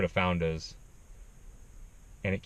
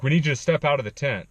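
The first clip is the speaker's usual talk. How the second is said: ranger order; 5 semitones higher, 5 dB louder, faster than usual. Retold or imitated. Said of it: "he's like".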